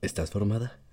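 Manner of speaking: suave voz de galán imitada. Retold or imitated. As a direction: como ligando con una morra, voz suavizada. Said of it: "y con esa voz me dijo". (voz de galán suavizada)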